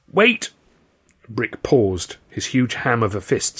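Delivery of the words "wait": high, urgent wait; sudden high, loud plea; panicked interruption. A narrator's reading. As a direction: cry out to stop the punch. Victim stops an imminent punch.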